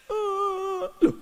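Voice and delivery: husband asks mourning friends why they cry, high and surprised; mock puzzled widower. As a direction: play the calm husband baffled by mourners. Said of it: "kata dia".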